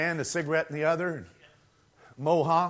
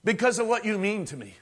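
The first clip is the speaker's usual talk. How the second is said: Christ's voice; 3 semitones higher than usual. Acted. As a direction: speak as the Savior to his bride, fervent. Voices Christ speaking to bride.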